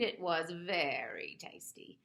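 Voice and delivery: slow, smug taunt; smug cat purring a tease. Acted. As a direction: savour each word to tease.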